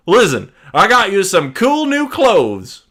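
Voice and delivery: pitched high and loud, cheeky; squeaky villain greeting; high Tom Riddle voice. Acted.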